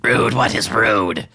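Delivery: slow, high, baffled creature voice; slow, quizzical kobold; puzzled kobold. Acted. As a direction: repeat the word like it's foreign. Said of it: "he looks at you and he says".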